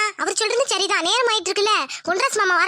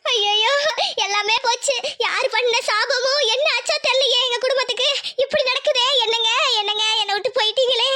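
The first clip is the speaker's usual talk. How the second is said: mournful lament; 5 semitones higher than usual. Acted. Widow laments.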